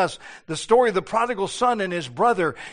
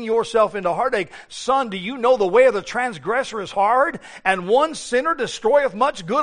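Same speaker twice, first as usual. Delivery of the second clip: earnest fatherly counsel; 2 semitones lower than usual. Retold or imitated. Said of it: "not said".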